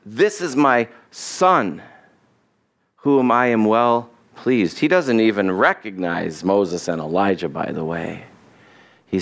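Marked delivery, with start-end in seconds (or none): 0.1-4.8 slow, drawn-out solemn pronouncement; God's declaration. Acted. God stepping in to correct Peter, slow and weighty declaration. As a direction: declare it deliberately, stretching the key words. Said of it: "steps in and says".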